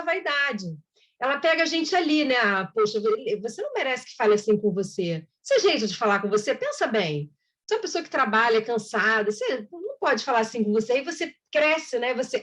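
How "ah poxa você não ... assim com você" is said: lower, coaxing voice of the obsessing spirit; coaxing inner tempter. Retold or imitated. Spirit whispering to the vain listener, lower and coaxing. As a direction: flatter them gently, like a tempter feeding vanity.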